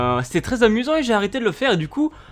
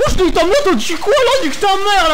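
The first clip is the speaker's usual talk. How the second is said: tough street voice; 11 semitones higher, 7 dB louder than usual. Pretend. Caricature of tough girl.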